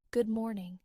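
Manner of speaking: gentle lilting good morning to a loved one; tender sing-song morning greeting. Shown as a demonstration. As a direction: lift the pitch a little, sing-song. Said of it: "The tone is a little higher".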